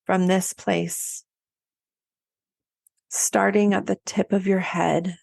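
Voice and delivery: unhurried meditation voice with long pauses; guided body scan. Acted. Coach guiding listeners to get comfortable and feel held, unhurried meditation voice. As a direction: let each phrase settle before the next.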